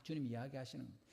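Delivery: usual speaking voice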